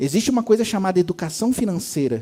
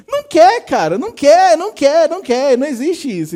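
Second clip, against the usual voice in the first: high, loud rapid-fire repetition; exasperated, raised-voice insistence; emphatic rejection; 6 semitones higher, 6 dB louder than usual. Real, not acted. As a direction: hammer each denial home, starting high. Heatedly rejects the hypocritical excuse.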